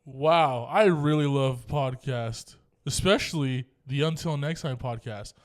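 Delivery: mock-showy American accent, slowly drawn out. Podcaster jokingly shows off a favorite accent, mock-earnest American accent. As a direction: put on a plain American accent, stretching the words. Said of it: "Let me use my favorite accent".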